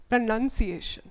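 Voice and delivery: "pronunciation" with a clear "nun" second syllable. Shown as a demonstration. Teacher modelling the word for learners, "pronunciation" with "nun". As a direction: say "pronunciation" as pruh-nun-see-ay-shun. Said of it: "What I'm saying, none".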